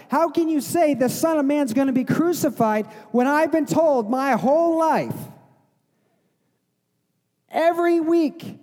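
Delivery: mildly exasperated, insistent questioning; incredulous challenge. Acted. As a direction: act a lifelong believer who can't accept this. Acts out crowd questioning Jesus.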